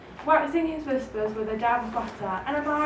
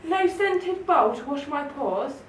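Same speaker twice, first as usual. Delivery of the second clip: scoffing; 3 semitones higher than usual. Acted. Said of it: "scoffed the Town Mouse".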